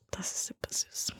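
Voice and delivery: whisper. Real, not acted. Whispering about grandma's sweetness.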